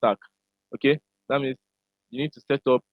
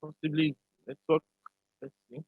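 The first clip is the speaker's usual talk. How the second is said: glitchy robotic call; 5 dB quieter than usual. Real, not acted. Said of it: "Your audio is breaking".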